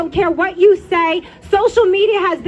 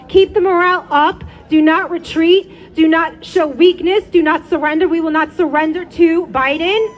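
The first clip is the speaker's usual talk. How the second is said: roaring rallying speech; 3 dB louder than usual. Real, not acted. Rally speaker urging crowd.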